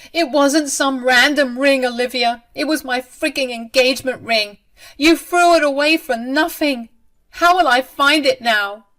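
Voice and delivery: high, loud, indignant outburst; distraught protest. A narrator's reading. Bride protesting over her tossed engagement ring, loud and upset. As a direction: cry out over what was taken from you.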